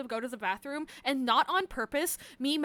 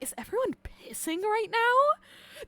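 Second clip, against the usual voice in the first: silly mock voice; 8 semitones higher, 10 dB louder than usual. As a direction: ask it in a silly put-on voice. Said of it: "like, in that voice".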